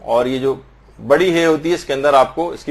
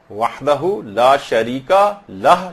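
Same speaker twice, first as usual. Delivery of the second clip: 1 slow recitation; 4 semitones lower, much slower than usual. Shown as a demonstration. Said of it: "یہ بھی صحیح ہے".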